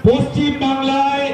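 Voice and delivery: forceful oratory in short, separated phrases; political rally speech. Real, not acted. Party leader thanking organisers and rallying supporters, forceful stump speech. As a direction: project each phrase to the crowd, pausing after it.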